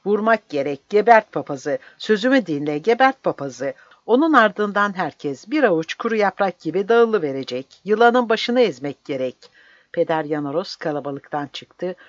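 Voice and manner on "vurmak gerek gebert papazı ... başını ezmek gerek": higher, louder ruthless yell; fierce urging shout. Acted. Mandras yelling at the commander to kill the priest, fierce. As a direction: bark the order to kill.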